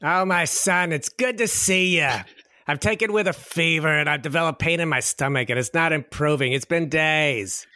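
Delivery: put-on a light New York mother's accent; New York mom accent. Sick mother greeting her doctor son, light New York accent. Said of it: "has to be his mom's accent".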